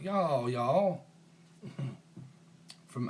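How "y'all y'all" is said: teasing, drawn-out Southern US "y'all"; mock Southern accent. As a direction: imitate a Southern drawl playfully. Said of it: "is that how you talk".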